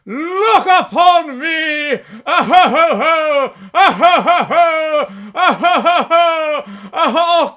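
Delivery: loud, high, booming ho ho ho; jolly giant laugh. Acted. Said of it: "a jolly giant".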